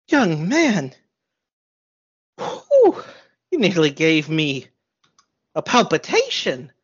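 a hint of a startled grandma catching her breath; fluttery old baker, mildly shaken; a touch of an old lady recovering from a fright; lightly voiced old lady, flustered.

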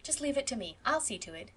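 starts in a whisper, then gently soothing; hushed, comforting reassurance; reassuring. Acted. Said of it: "said Phil reassuringly".

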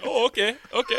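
high, lightly laughing "Oh, okay, okay"; half-laughing impression of a teammate agreeing; mock cheerful reply. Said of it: "Nuri's like".

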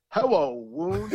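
slow, high "Hello, Woon" dropping the R. Retold or imitated. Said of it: "pronounce words without the R".

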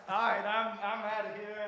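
high, loud, laughing exit. Retold or imitated. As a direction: laugh it out, backing away. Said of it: "and I was like".

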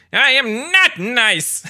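high, drawn-out villain squawk; Skeletor. Retold or imitated. Quoting a favorite cartoon villain line, hammed-up villain voice. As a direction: squawk it slowly and loud. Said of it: "But Skeletor is".

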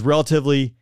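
mildly hedged, as if in quote marks; air quotes. Real, not acted. Podcast host judging the movie's mission plot, air quotes. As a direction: set it apart with a touch of skepticism. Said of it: "I say that with air quotes".

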